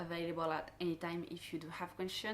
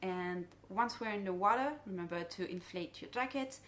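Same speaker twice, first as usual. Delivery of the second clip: dive boat safety briefing. Shown as a demonstration. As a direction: friendly guide briefing divers. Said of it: "the dive briefing that I will do".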